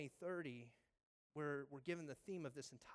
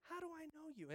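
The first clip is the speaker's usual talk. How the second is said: astonished question; 10 semitones higher, 5 dB quieter than usual. Retold or imitated. Nathanael asks Jesus, astonished.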